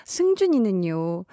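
slow, sweet third-person name; cute drawn-out self-name. Acted. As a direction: say the name slowly and cutely. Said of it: "마치 제 얘기처럼 더 이입이 되네요".

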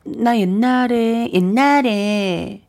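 옛날에 stretched very slowly and sweetly; drawn-out aegyo. Shown as a demonstration. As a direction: drag out 옛날에 coyly. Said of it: "용자, 응자".

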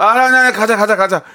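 high, loud, flustered giving-in; hasty backtracking. Acted. Dad placates sulking daughter about café, hurried backtracking. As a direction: cave in at once to placate her. 삐진 딸을 급히 달래는 아빠.

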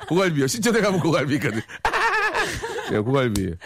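words through high laughter; can't stop laughing; laughing while talking. Real, not acted. (웃음을 참지 못하며)

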